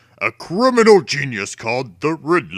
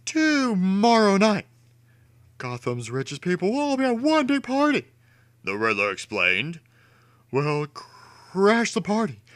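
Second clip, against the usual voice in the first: much higher, gleeful schemer; Riddler voice; 10 semitones higher than usual. A narrator's reading. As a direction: scheme aloud with giddy villain glee.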